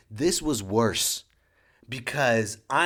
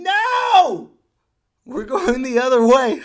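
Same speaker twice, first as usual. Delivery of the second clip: high, loud refusal; loud protest; 11 semitones higher, 10 dB louder, slower than usual. Retold or imitated. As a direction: yell back no. Shouting back at rink.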